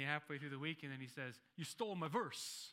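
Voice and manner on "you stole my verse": laughing, slightly higher mock Italian guy; Rocco impression. Pastor imitates church friend Rocco accusing him, laughing. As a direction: play the aggrieved buddy, half joking. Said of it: "That's my Rocco impersonation".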